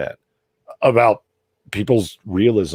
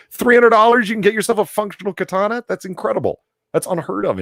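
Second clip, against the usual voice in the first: excited disbelief; 13 semitones higher, 4 dB louder than usual. Real, not acted. Excited about cheap katanas.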